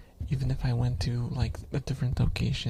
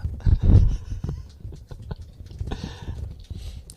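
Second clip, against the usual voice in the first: long, real burst of laughter; 5 dB louder than usual. Real, not acted. Streamer cracking up at being called a shoda, laughing hard. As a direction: crack up for several seconds.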